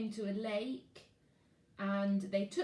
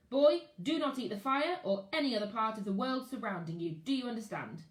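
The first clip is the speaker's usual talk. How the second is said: put-on louder, firm warning to a child; stern explorer; 4 dB louder than usual. Explorer warning Max not to eat the fire, firm. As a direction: lay down the rule to the boy.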